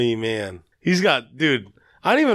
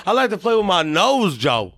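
mock Southern accent, higher then dropping on the name; a singer; 4 semitones higher than usual. Singer confessing to Joe, repeated for laughs, mock Southern accent. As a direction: relish the confession in a Southern impression. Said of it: "Impersonating him?".

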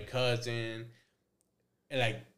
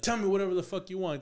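raised-pitch mock dare; imitated defiant therapist; 6 semitones higher, 4 dB louder, faster than usual. Therapist shrugging off patient's cursing, imitated defiance. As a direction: lightly act unbothered by the abuse. Acting therapist brushing off curses.

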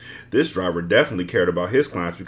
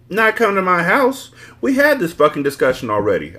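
higher, louder, slowed-down outburst; angry shout; 9 semitones higher, 4 dB louder than usual. A narrator's reading. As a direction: throw it back at him, fed up. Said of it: "I shouted angrily".

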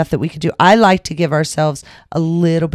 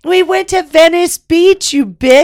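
high squeaky teasing voice; 12 semitones higher, 5 dB louder than usual. Real, not acted. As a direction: tease her in a squeak.

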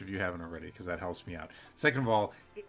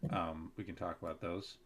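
booming announcer sign-off; radio announcer voice. Acted. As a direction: wrap up the show like a radio host. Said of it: "how's my radio announcer voice".

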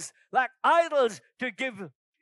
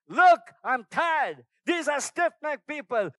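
God weary; 3 semitones higher, 3 dB louder than usual. Pretend. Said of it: "And God's saying".

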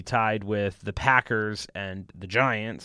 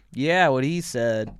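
lackadaisical; slower than usual. Retold or imitated. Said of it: "lackadaisical guy ever".

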